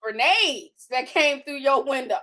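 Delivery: mock shocked onlooker. Friend reacting to her bullet holes, mock shocked. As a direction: play a stunned visitor, hammed up.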